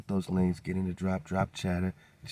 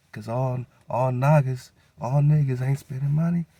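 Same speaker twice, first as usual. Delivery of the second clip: rising to a loud, high cry; a rallying roar of conviction; building shout; 6 semitones higher, 8 dB louder than usual. Real, not acted. Preaching boycott, building up.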